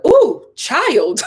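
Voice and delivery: a touch of sass; sassy audition read. Retold or imitated. Reading the audition line as written, sassy. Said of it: "I read it like they wrote it".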